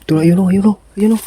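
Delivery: quick, eager pointing out; excited spotting. Real, not acted. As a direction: call out the enemy eagerly.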